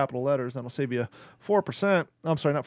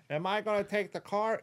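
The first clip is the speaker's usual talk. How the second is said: higher, softer, wooden voiceover question; bad dub henchman; 5 semitones higher, 8 dB quieter than usual. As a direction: ask it like a bored voice actor reading cold. Mocking bad voiceover dialogue.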